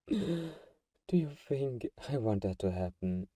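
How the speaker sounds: hurt gasp. Acted. Vampire hurt by hunter's suspicion.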